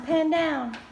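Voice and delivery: loud repeated call, stress on "Pan". Real, not acted. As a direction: call again, hitting "Pan". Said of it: "repeats the instruction".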